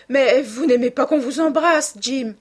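high, loud playful protest; exclaiming. A narrator's reading. Sister teasing her brother about kisses, exclaiming. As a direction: cry out with lifted pitch, teasing. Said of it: "s'écria-t-elle".

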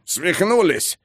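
slow strained wheeze with a pinned throat; hoarse hiss of a man held at knifepoint; wheezing. A narrator's reading. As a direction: rasp it out with little breath. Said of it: "просипел Ганта".

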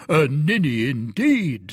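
slow, scornful agreement; drawn-out mild scorn; scornful echo. Acted. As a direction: echo the insult with relish. Porthos scornfully echoes the insult.

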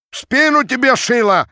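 high, loud abusive yell; cursing shout. A narrator's reading. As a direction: curse him out over the crowd. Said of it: "кричала с бранью толпа".

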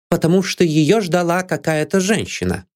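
high, gloating; triumphant. A narrator's reading. Maid Anne gloats over the detective. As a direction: savour the win. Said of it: "торжествующе съязвила Энн".

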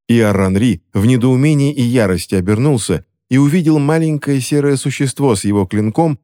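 usual speaking voice

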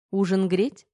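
sultry, teasing offer; femme fatale. Acted. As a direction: tempt him with the question. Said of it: "но таким голосом".

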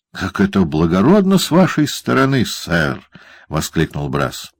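grovel politely to Quilp; obsequious lawyer's question; fawning lawyer. Acted. Brass flatters Quilp.

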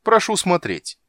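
loud, high showman announcement. Acted. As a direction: present it like a magician. Showman presents catch.

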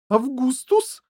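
loud, high scolding call; angry. A narrator's reading. Mother frowning at her son, angry call. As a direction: snap out the name, rising. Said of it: "гневно нахмурилась миссис Глуп".

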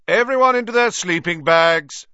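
high, loud prefect's order; shouting. A narrator's reading. Percy ordering the whole hall to bed, shouting. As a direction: bark the order across the hall. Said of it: "shouted Percy".

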